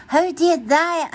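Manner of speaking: sit up startled and ask; surprised. Acted. Pete, woken up, asks his friends surprised.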